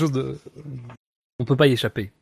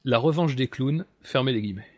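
dictating; faster than usual. Pretend. Dictates the punctuation again.

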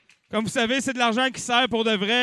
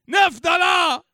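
loud, higher bid shout; auction call; 9 semitones higher, 6 dB louder, slower than usual. Real, not acted. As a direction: call the new price over the room. Auctioneer calling out bids. (crier le prix fort)

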